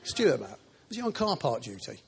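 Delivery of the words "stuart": loud, high shout across the room; calling out. Real, not acted. Preacher looking for Stuart in the congregation, calling out loudly. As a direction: call out searching for someone.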